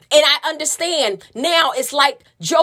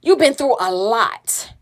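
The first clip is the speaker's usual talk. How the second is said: consoling; slower than usual. Retold or imitated. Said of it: "He was consoling me".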